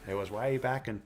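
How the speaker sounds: a hint of a fireside storyteller; hushed creepy legend telling. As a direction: tell it like an ancient legend. Mock old tale to grandkids.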